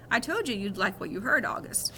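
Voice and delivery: put-on doctor whispering to the boy with a wink. Doctor winks.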